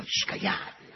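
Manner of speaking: hushed whisper to a friend. Acted. Friend whispers to hush the mocking boys. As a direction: whisper it so he won't hear.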